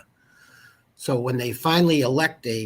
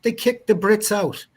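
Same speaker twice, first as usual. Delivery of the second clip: mock discovery; 11 semitones higher, 7 dB louder than usual. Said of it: "And sure enough".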